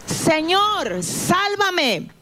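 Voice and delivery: a hint of panic, reaching up; mild cry for help. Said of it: "y gritó".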